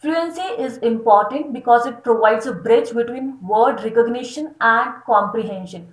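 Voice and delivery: slow, deliberate reading of a definition; slow dictation read. Acted. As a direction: dictate it slowly for notes. Reads text slowly. (धीमे-धीमे परिभाषा पढ़ना)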